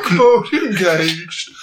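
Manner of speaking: slow, flat machine announcement; robot voice. Pretend. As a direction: speak it like a robot. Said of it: "he's a robot".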